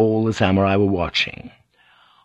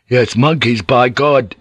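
louder, cheering assent; happy agreement; 3 semitones higher, 5 dB louder, slower than usual. Acted. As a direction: chime in happily. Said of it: "Sunk said happily".

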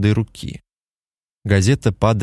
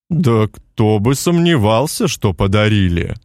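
smirking giant. Acted. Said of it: "хмыкнул великан".

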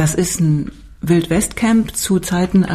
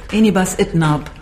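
Name rückwärts gesprochen; backwards speech; 2 semitones higher than usual. Pretend. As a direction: Enibas Itnab, Sabine Brandi rückwärts. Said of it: "kann wirklich rückwärts sprechen". (Name rückwärts ausgesprochen)

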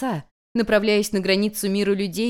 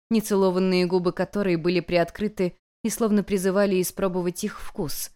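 usual speaking voice

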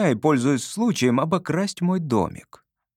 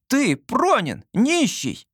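put-on much higher, stunned boy's outcry; gasping shock; 11 semitones higher, much slower than usual. A narrator's reading. Boy learning the stranger is a beggar, stunned. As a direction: gasp out the discovery. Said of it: "Я ахнул".

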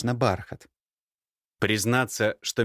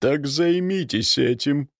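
slow, sharp angry retort; 5 semitones higher, slower than usual. A narrator's reading. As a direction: snap it out with sudden anger. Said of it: "вдруг на удивление зло".

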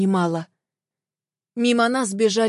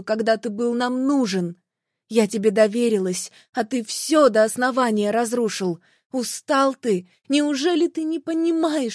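mild mock shouting. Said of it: "От крика запершило горло".

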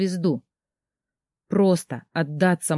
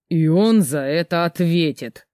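flaring up. Acted. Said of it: "вспылил Рейнольд".

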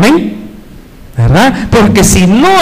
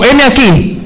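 raised, emphatic answer to a call; fervent volunteering; 5 semitones higher, slower than usual. Acted. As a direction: step forward with a ringing declaration. Acted eager answer to God's call.

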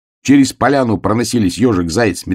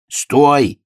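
higher, drawn-out call to halt; окрик; 8 semitones higher, 3 dB louder than usual. A narrator's reading. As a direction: call out to stop someone. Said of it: "крикнул медвежонок". (протяжный окрик)

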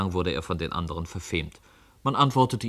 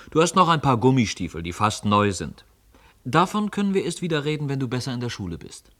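higher, louder, dismissive parent voice; parents fobbing off; 5 semitones higher, 4 dB louder than usual. Acted. Parents putting off the son, higher and louder. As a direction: brush the child off, loud and high.

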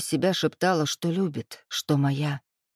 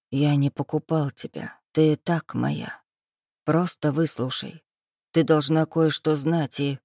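insinuating, soft. Acted. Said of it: "вкрадчиво добавив".

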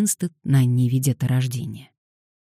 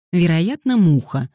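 snide; 3 semitones higher, 5 dB louder than usual. Acted. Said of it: "съехидничал Дэниел".

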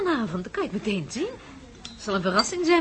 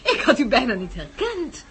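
much higher, slow, laughing tease; 10 semitones higher, 3 dB louder than usual. Acted. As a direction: tease him through laughter. Teasing old friend, laughing.

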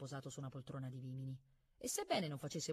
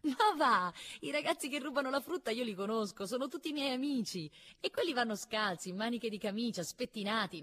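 high, loud burst of scornful amusement; high-pitched, derisive young girl; mocking little girl; 8 semitones higher, 5 dB louder than usual. A narrator's reading. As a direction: tease him in a high girlish voice. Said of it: "scoppiò in una risata".

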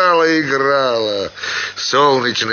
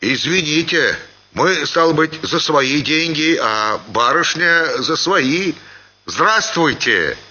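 higher-pitched tipsy apology; embarrassed peasant; 6 semitones higher than usual. A narrator's reading. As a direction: make a confused, polite excuse to the lady. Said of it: "сконфузился маленький мужик". (сконфуженное извинение подвыпившего мужика)

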